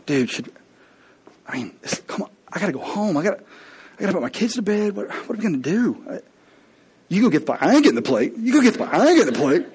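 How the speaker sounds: nervous servants pushing the job onto each other; bickering servants. Acted. Servants bickering over the plate.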